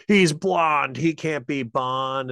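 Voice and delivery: high, loud imitation of griping fans; mock moaning. Man imitating fans griping about the new Bond, mock moaning. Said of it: "bitching and moaning".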